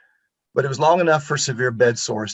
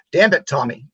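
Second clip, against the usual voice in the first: mock gruff scold in a Boston accent, a little louder; imitating grandpa's Boston growl at the boy; thick Boston accent; 4 semitones higher, 5 dB louder than usual. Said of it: "in that, that thick Boston accent".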